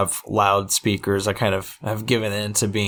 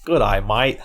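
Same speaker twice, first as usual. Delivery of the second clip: Australian accent. Shown as a demonstration. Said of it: "Say it with me".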